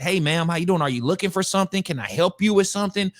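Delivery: imitating a courteous stranger offering help; politely helpful, lightly acted; mock polite. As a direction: put on mild, easy politeness. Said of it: "roll down the window and be polite".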